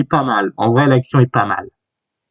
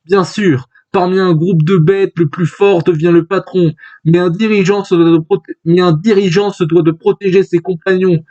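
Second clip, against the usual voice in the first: slightly raised, declaiming character voice; lightly voiced Al; 4 semitones higher than usual. Al lecturing about leaders and companions, lightly acted declamation. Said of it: "c'est Al qui parle".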